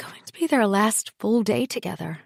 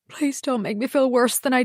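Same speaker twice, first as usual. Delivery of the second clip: pleading; 5 semitones higher than usual. Acted. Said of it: "he pleaded with her".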